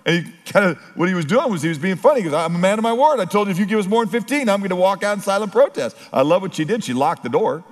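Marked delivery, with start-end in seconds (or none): 2.3-6.0 put-on higher, quick boastful kid voice; a hint of a smug teenager; mock proud kid. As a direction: play the cocky thirteen-year-old. Son's mock-grand quote.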